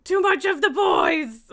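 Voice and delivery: high, loud, drawn-out mock protest; hammed-up cat complaint. Speaking for Lily about the boys, mock outrage. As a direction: wail it as a put-upon cat, playfully.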